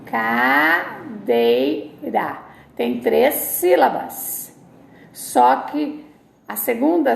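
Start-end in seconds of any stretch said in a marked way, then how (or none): 0.1-1.5 Cadeira said again slowly; slow repeat. Shown as a demonstration. Teacher to class, repeating cadeira slowly. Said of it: "como eu falo".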